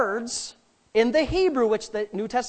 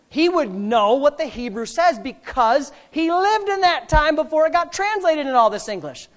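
raised, punchy preacher delivery; emphatic preaching; 5 semitones higher, 5 dB louder than usual. Real, not acted. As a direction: drive each point home to the congregation. Preaches with force.

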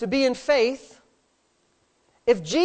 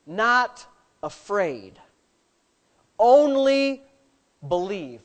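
slow stressed quote; 4 semitones lower, much slower than usual. Shown as a demonstration. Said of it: "Or you can say it this way".

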